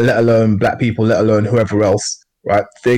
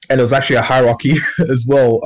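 real nervous laugh breaking in mid-sentence; 2 semitones higher, faster than usual. Real, not acted. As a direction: let an uneasy little laugh slip out after "hierarchy". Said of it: "I know I'm laughing, but it's like a nervous laugh".

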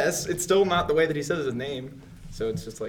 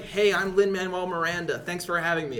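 Lin-Manuel Miranda voice; 3 semitones higher than usual. Retold or imitated. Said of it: "he's like".

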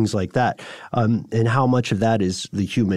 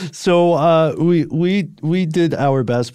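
higher, louder, amused restart after a laugh; 7 semitones higher, 4 dB louder, slower than usual. Real, not acted. Host resuming the sign-off after a joke, laughing. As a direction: pick up again through leftover laughter. Recovering from shared laughing fit.

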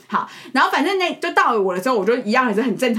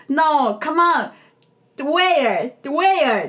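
exasperated officer; 2 semitones higher, much slower than usual. Retold or imitated. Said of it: "他深吸一口气之后".

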